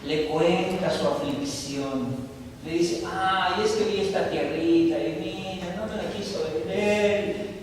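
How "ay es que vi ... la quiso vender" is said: whiny drama. Acted. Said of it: "Hace su drama".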